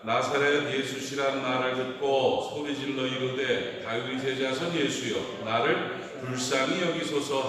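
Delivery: slow, deliberate Bible reading; measured public reading of scripture. A narrator's reading. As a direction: read the verse out slowly and solemnly. Reads scripture aloud to congregation.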